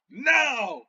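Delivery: high, drawn-out no; character's defiant cry. Acted. Game master as Balthazar before the giant, dramatic cry.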